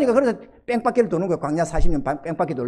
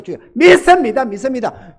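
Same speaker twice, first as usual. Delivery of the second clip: louder, rising cry of faith; fervent prayer; 3 semitones higher, 6 dB louder than usual. Retold or imitated. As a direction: cry out in earnest belief. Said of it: "간절한 마음으로 하나님 앞에 매달려가지고".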